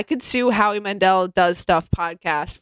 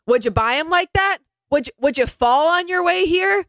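mock boomer; 6 semitones higher than usual. Mocking boomer coworker's jokes.

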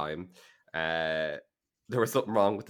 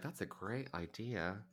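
A singer; 9 dB quieter than usual. Retold or imitated. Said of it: "the singer's like".

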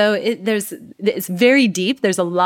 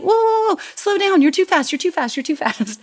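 mock panic; 11 semitones higher than usual. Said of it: "And it's like".

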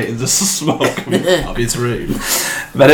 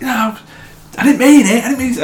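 mock panicked pleading; 11 semitones higher, faster than usual. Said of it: "this guy's like".

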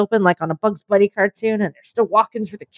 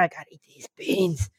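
dim creature voice; 4 semitones lower, 10 dB quieter than usual. Acted. Imagined bean eater, gruff voice.

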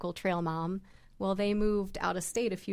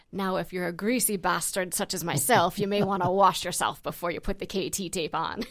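loud, broad Scottish brogue; thick Scottish accent; 6 dB louder than usual. Retold or imitated. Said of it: "had this really thick Scottish accent".

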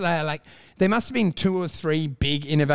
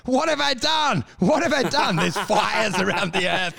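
mock panicked yelling; 3 semitones higher than usual. A rapper comes out of the presidency simulator, mock yelling. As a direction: cry out in hammed-up alarm. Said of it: "two hours later yelling".

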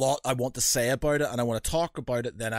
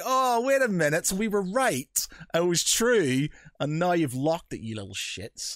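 high, smug told-you-so; triumphant gotcha; gloating; 5 semitones higher than usual. Retold or imitated. Retold gloating at Reddit.

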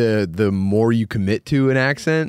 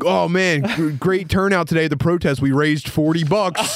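pitched-up, put-on gratitude; mock upbeat announcement; 5 semitones higher than usual. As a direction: read out a cheery post, tongue in cheek. Acted tweet from a hypocritical striker.

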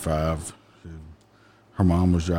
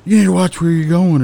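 loud, higher scolding shout; scolding yell, much higher and louder; retold shout; 9 semitones higher, 6 dB louder than usual. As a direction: yell a warning at them. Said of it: "but I was like".

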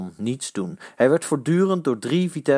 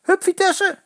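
high, loud crowd cheers; cheering shout; 4 dB louder than usual. A narrator's reading. Supporters cheering on their team, loud cheer. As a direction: shout encouragement from the stands. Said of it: "het aanmoedigende".

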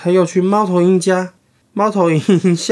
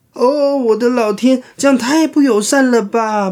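轻度的尖叫; 8 semitones higher than usual. Acted. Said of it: "莫里斯尖叫".

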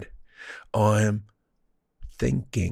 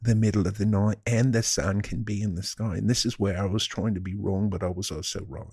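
put-on British wanker accent; mock British accent. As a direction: talk casually in a hammed-up British accent.

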